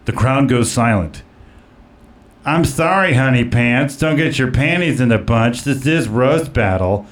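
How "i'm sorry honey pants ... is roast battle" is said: Bruce Vilanch. Acted. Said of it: "I'm gonna play the part of, uh, Bruce Vilanch".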